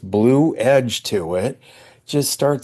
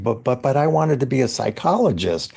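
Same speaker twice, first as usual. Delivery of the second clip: quick, stammered mock protest; retold babbling; 3 semitones higher, faster than usual. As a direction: babble a flustered objection, tripping on the first word. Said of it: "I started babbling".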